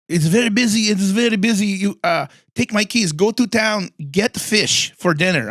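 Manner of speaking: a hint of a bossy friend sending her to town; friend's voice. Friend telling her to fetch fish, lightly voiced. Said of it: "she says".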